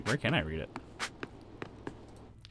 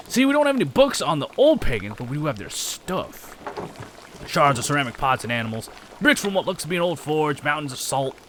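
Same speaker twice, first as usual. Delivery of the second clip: lightly put-on rustic accent; accented townsperson; 4 semitones higher than usual. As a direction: gossip about granddad in an accented character voice.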